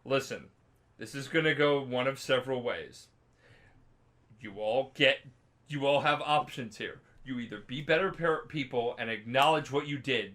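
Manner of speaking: even, measured ultimatum; matter-of-fact. Acted. Witcher confronting guilty townsfolk, matter-of-fact. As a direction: lay out the facts without fuss. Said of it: "just matter-of-factly".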